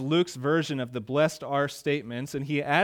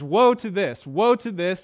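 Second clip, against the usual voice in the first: louder, higher warning; emphatic woe; 4 semitones higher, 6 dB louder than usual. Acted. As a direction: hammer each woe. Listing the woes.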